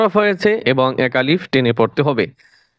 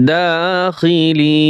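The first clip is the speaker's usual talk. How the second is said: slow drawn-out reading; 3 semitones higher, much slower than usual. Shown as a demonstration. Teacher to students, showing how to blend the syllables, slow chanted reading. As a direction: stretch every syllable, very slow and sung out. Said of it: "বানান করে পড়বেন".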